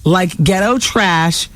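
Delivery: lightly voiced haughty diva, slow; a hint of a cool grande dame putting a girl down; quoted diva reply. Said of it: "so she fired back".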